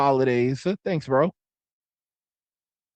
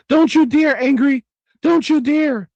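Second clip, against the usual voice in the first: mock warning; 8 semitones higher, 5 dB louder than usual. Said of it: "he was like".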